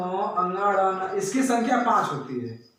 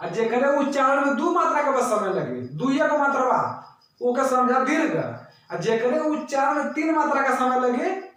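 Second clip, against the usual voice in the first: Bhojpuri explanation; 3 semitones higher than usual. Shown as a demonstration. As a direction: switch to homely Bhojpuri for the class. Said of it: "अब हम भोजपुरी में बता दे रहे हैं". (भोजपुरी लहजे में समझाना)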